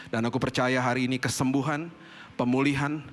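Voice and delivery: closing prayer. Acted. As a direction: lead the congregation in prayer. (doa penutup yang khidmat)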